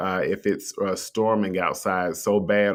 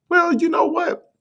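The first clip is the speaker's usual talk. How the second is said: very high, slow teasing well; teasing reveal; 5 dB louder, slower than usual. Acted. To viewers about to learn a twist, slow high teasing reveal. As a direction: draw out the reveal playfully.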